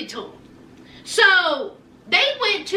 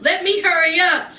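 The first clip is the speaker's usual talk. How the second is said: lightly voiced artist. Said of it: "that Henny artist was like".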